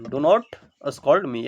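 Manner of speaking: each word drawn out slowly for students; slow dictation. Shown as a demonstration. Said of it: "मुझे मत डांटो". (बहुत धीरे, शब्द-शब्द करके)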